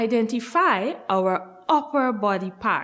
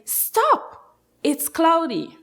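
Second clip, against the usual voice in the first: bright sing-song call; call out stop; 5 semitones higher, slower than usual. Shown as a demonstration. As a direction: call it out for the class. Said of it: "you will say".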